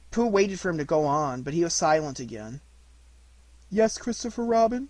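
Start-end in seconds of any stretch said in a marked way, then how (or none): 3.7-4.9 higher, prompting question; eager-to-help bear, lifting at the end; helpful. A narrator's reading. Bear prompts the silent boy, helpful rising voice. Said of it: "said Pooh helpfully".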